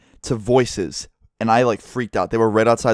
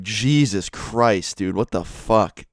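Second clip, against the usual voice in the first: slow stunned disbelief; much slower than usual. Retold or imitated. Stunned reaction to the knife.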